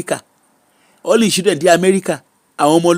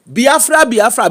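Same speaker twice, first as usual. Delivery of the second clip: mock shouted slogan; 6 semitones higher, slower than usual. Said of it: "come dey shout".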